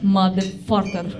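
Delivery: "Motherfucker" drawn out slow and low, each syllable weighted; slow menacing. Pretend. Driver caught, comedian drags out "Motherfucker" menacingly. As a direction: lean on "Motherfucker" slowly, menacing. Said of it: "motherfucker repeated".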